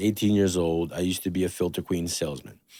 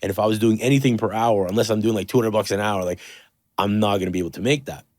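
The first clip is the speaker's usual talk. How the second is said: insistent; 3 semitones higher, 5 dB louder than usual. Retold or imitated. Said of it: "I'm like".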